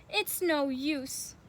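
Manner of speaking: slow, drawn-out defeat; sighing, dejected. Acted. Ricky giving up on rolling, slow dejected sigh. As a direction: give up with a heavy sigh. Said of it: "Ricky sighed".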